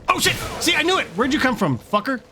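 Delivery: high, loud triumphant shout; excited yell. Real, not acted. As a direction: crow about being right. Ambushed by hunters.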